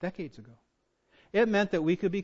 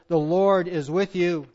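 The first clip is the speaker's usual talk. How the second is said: "The Lord is with you", slowly and weightily; deliberate emphasis; 6 dB louder, slower than usual. Shown as a demonstration. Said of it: "the emphasis in verse twelve is".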